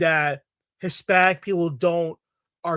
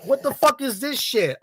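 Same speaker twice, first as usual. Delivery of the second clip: redone take; 6 semitones higher than usual. Retold or imitated. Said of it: "Sorry, I gotta flip that".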